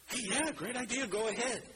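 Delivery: lightly voiced eager Nathan; breezy green light. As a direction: toss off the yes like a careless adviser. Nathan's earlier green light mimicked.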